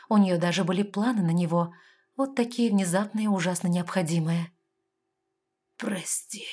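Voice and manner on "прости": barely whispered apology; weak whisper. A narrator's reading. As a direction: breathe it out, too weak to speak. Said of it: "кое-как произнёс Сатраш". (слабый шёпот)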